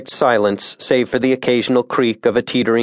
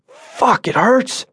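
high strained voice of a hurt man; pained cry; 11 semitones higher, much slower than usual. A narrator's reading. Wounded guide to his friends, high pained cry. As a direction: wince it out high.

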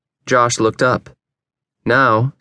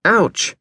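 short, high "ouch"; quick high cry of pain; pained yelp; 8 semitones higher than usual. A narrator's reading. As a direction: yelp at a burn. Burns hand beating flames.

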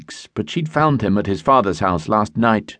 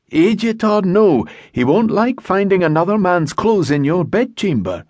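even calming tones; 10 semitones higher than usual. A narrator's reading. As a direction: keep it level to settle her down. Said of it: "in the even tones he used to calm horses".

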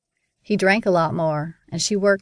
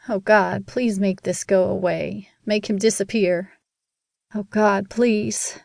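put-on child's prayer; slower than usual. A narrator's reading. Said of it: "I prayed and prayed".

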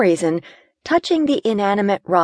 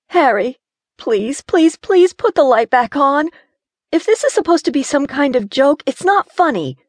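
higher, urgent begging; frightened pleading; 9 semitones higher, 3 dB louder than usual. Acted. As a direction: plead with him to turn the light on. Gina pleading in the dark.

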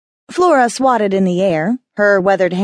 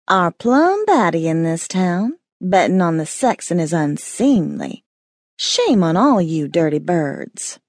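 slow, easy hissing drawl; unhurried, sensuous lizard scolding; drawling iguana. Acted. The iguana shaming everyone betting on the romance, in a slow hissing drawl. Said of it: "she drawled, slow and easy, her words hissing".

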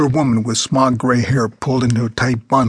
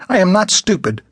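put-on scornful old woman; 8 semitones higher than usual. A narrator's reading. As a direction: brush him off with contempt.

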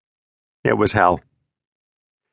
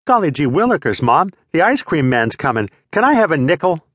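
put-on wholesome 1950s kid; 5 semitones higher than usual. Mock 1950s kid asking mom.

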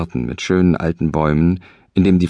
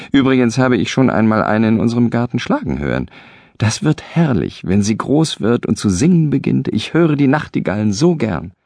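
higher, dreaming aloud about the bird; eager insistence; 5 semitones higher than usual. Acted. Husband enthuses to his wife, higher and eager. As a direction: talk himself into it, eager.

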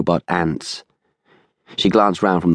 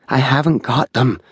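raised-pitch woman's protest; higher, strained protest; voice rising; 6 semitones higher than usual. A narrator's reading. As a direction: let the voice climb in denial. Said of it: "The woman's voice rose".

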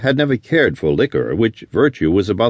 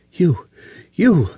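sputtering, higher angry outburst; 8 semitones higher than usual. A narrator's reading. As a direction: burst out at him, choking on rage. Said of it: "she broke out".

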